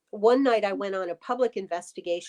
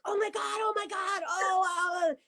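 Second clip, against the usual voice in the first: retold shock; 11 semitones higher, 3 dB quieter than usual. Retelling seeing a flashing light.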